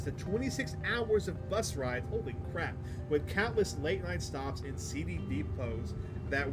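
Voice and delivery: measured story narration. Acted. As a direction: read it out like a storyteller. Reads game narration aloud.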